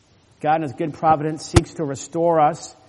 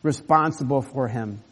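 Judah's emphatic pledge; 5 dB louder than usual. Acted. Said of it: "you could translate it".

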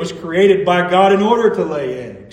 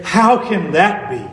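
amazed question; 4 dB louder than usual. Pretend. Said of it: "to pause and say".

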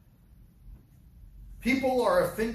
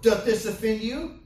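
quoting Jesus; 4 semitones higher, 5 dB louder than usual. Retold or imitated. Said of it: "Look at verse sixty-two".

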